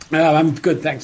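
slightly hoarse, frog in throat; throaty voice after clearing throat. Real, not acted. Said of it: "just got a frog in my throat there".

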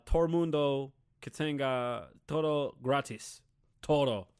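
mock halting American-accented Spanish; stupid-accented Spanish. Mocking a debate candidate pandering to the crowd, stupid gringo-accented Spanish. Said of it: "in a stupid accent is still funny".

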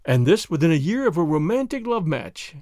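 probing remark at an even pitch; pointed query. Acted. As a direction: prod with understated irony. Chauvelin questions her year-old marriage.

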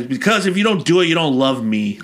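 mock needy whine of an emotional blackmailer; petty girlfriend. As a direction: rush out a hurt accusation, played for laughs.

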